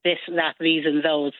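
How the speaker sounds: careful TH on "this, that, these and those"; slow schoolroom TH on "this, that, these and those"; careful TH sounds. Shown as a demonstration. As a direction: pronounce the TH at the start of "this, that, these and those". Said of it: "we have to learn how to say".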